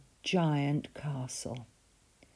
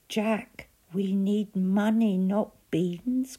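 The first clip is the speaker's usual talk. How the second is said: louder, higher exasperated cry; mother crying out; 5 semitones higher, 5 dB louder, slower than usual. A narrator's reading. Mother crying out at Jack over the beans. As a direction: cry it out in despair. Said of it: "cried his mother".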